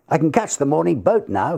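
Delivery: lightly voiced eager young man; young secretary. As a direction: sound keen to be off.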